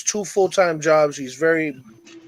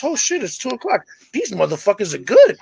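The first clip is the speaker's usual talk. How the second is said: acted high-pitched astonishment; lightly hammed-up disbelief; amazed cowboy; 5 semitones higher than usual. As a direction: act impressed, pitch jumping up at the start. Cowboy amazed at second Indian.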